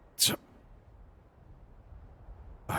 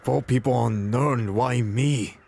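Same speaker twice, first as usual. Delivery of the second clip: raised, pleading exasperation; higher, overwhelmed plea; distressed disbelief; 4 semitones higher, 4 dB louder than usual. Acted. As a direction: protest your fate, voice lifting. Overwhelmed at being chosen.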